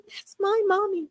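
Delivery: high, proud little voice; excited dog voice. Retold or imitated. Dog spirit showing off her mommy, high and thrilled. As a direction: gush it like a thrilled pup.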